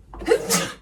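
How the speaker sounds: stifled voiceless sneeze; acted sneeze into the hand. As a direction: let a muffled sneeze escape. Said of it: "a little bit of a sneezing fit".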